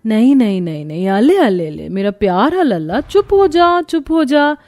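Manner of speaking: swooping, sing-song cooing; cooing parent, pitch gliding up and down; soothing baby talk. Acted. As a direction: hush a crying baby with lisped nonsense.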